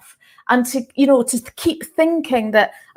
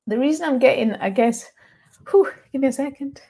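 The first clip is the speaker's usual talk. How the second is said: emotional; 3 semitones higher, faster than usual. Real, not acted. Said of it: "I'm getting a little bit emotional".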